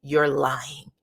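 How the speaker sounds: rising to a loud, high demand; mock scolding. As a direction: lay into her, building to a shout. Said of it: "he said".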